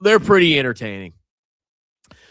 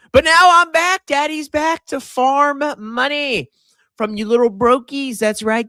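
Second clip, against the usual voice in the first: gleeful greedy boast; 8 semitones higher than usual. Acted. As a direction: crow like a cartoon miser back in business.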